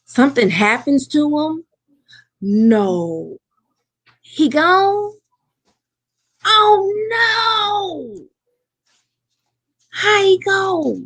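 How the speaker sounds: rising, stunned questions; hearing bad news, voice climbing high; high, slow dismayed questions; shocked disbelief. Real, not acted. Shocked to hear character died.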